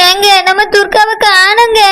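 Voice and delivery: crying while telling the news; tearful. Acted. Wife tells husband their daughter is missing, tearful. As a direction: say it through sobs. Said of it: "எதுக்கு அழுதுட்டு இருக்கா".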